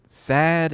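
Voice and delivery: "sad" drawn out with one flat A vowel; alternative pronunciation. Shown as a demonstration. Streamer querying how Saeed is said, "sad" as one drawn-out syllable. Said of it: "Can you just decide, is it".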